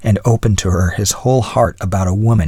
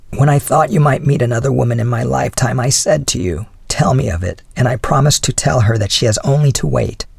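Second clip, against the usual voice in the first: higher-pitched wife, composed; wife's voice; 4 semitones higher than usual. Acted. Wife reminding her husband of her promise, higher composed voice. Wife recalls earlier words.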